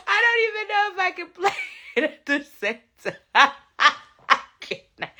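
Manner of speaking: laughing so hard the words fall apart; helpless laughter. Real, not acted. Streamer watching the clip, helpless with laughter. Cracking up at the video.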